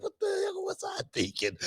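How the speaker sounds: high, laughing self-mockery; laughing disbelief. Host laughing at his own reckless younger self. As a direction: crack up at your own nerve. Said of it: "I was like".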